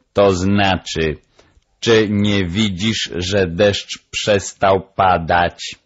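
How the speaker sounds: slow, deliberate parrot voice; measured, emphatic parrot teacher; lecturing parrot. Acted. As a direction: translate patiently as the bird. Parrot interprets the dog.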